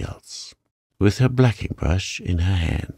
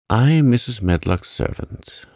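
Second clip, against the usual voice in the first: stout; 4 semitones higher, 3 dB louder than usual. Acted. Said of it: "she said stoutly".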